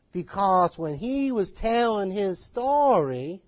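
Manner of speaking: very slow Georgia storytelling; mock slow Southern accent; Georgia drawl. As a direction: stretch the words like a Georgia talker. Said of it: "And he talked like this".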